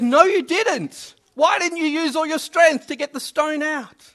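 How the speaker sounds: lightly acted dad contradicting his son; stern dad. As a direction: press the point as a dad. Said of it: "the dad goes".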